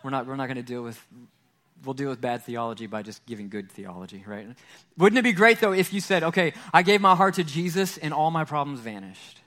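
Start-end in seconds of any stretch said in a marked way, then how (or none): 5.0-9.4 mock excitement. Excited daydream of easy faith.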